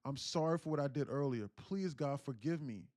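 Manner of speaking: pleading with God, acted out; impassioned bargaining prayer in a storyteller's voice; retold desperate prayer. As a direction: beg forgiveness urgently, swelling and falling. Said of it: "he said he got on his knees".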